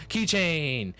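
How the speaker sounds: loud, high, drawn-out cry; rallying shout. Acted.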